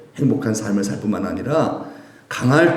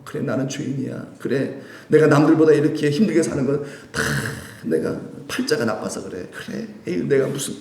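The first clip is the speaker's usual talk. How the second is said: self-pitying mutter; 3 dB quieter than usual. Retold or imitated. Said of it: "이러고 이렇게 주눅들지 않고요".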